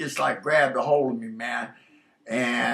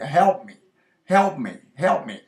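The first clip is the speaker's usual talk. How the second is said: yelling for help; 5 dB louder than usual. Retold or imitated. Lost man shouting to a stranger for help, loud retold yell. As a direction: shout for help across the dark. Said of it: "I kept yelling as loud as I could".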